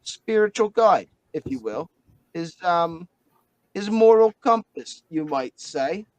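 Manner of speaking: a light Australian twang, mate; a hint of an Australian bloke; Aussie accent. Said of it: "doing any more of Winston's voice".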